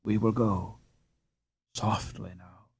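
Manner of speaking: low, soft and hushed; hushed whisper. Acted. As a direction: keep it down inside the church. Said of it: "he whispered".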